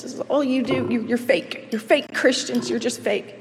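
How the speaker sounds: angry, desperate yelling at a church receptionist; retold angry yelling. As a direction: shout accusations, then plead. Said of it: "I yelled at the receptionist".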